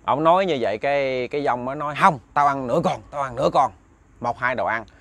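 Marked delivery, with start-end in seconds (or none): 2.0-3.7 growling ghost. Retold or imitated. Nó gầm gừ.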